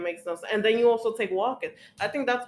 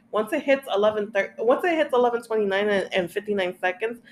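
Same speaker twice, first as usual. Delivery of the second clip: rapid, louder insistent rant; heated rant; 5 dB louder, faster than usual. Real, not acted. Patient ranting at the clinic about waiting past her time, fast heated insistence. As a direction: push it fast like you've had enough.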